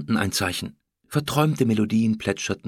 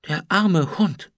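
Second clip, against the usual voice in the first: slow, higher-pitched lament; tearful pity; 8 semitones higher, 5 dB louder, slower than usual. A narrator's reading. Kim mourns the dying dog, slow tearful pity. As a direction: draw it out with aching pity. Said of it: "sagte Kim leise mit Tränen in den Augen".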